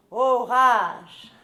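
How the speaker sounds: orage fort puis désespoir lent et traîné; déclamation tragique. Acted. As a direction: joue la tragédienne qui se lamente. Reprend le texte en déclamant. (déclamation fort puis lente et traînée)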